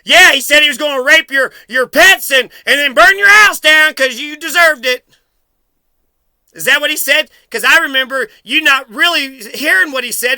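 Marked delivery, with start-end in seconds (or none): 0.0-5.1 mock gloating tone. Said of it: "this tone in your voice".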